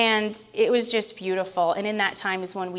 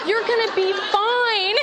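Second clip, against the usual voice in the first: laughing; 11 semitones higher, 4 dB louder, slower than usual. Real, not acted. Laughs at husband's comfort.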